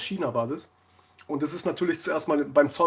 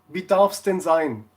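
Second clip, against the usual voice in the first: drawn-out, politely louder shop greeting; imitating a baker's saleslady, slow and courteous; slow polite saleswoman; 5 dB louder, slower than usual. Baker's saleslady asking the customer, slow polite mock voice. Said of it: "Und dann sagt die zu mir wirklich".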